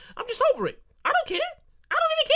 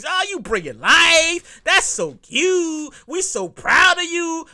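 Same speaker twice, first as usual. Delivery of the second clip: sarcastic gushing; 4 semitones higher, 3 dB louder, much slower than usual. Pretend. Mock gushing over pregnancy.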